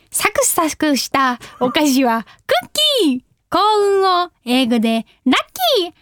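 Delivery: bouncy punchline on each "キー！"; upbeat. Shown as a demonstration. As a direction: read it with a groovy, upbeat swing. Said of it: "ノリよくだって".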